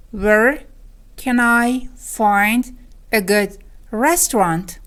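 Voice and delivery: very slow, each chunk set apart; word by word. Shown as a demonstration. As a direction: pause after "Where", then piece out "can I find a good restaurant". Lesson repeats it word by word. (خیلی شمرده و آهسته)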